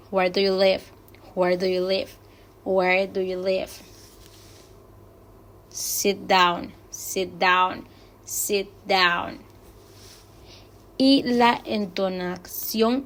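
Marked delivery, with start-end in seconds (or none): 0.1-3.7 LIVE not rising, settling down at the end; falling question intonation. Shown as a demonstration. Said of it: "también tienen este feeling intonation". 5.7-9.5 DOWN falling at the end; falling intonation. Shown as a demonstration. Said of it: "este feeling intonation".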